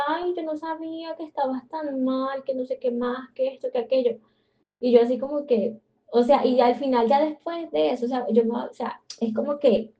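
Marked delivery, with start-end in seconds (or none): 0.1-4.2 whiny excuse. Retold or imitated. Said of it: "Y yo que".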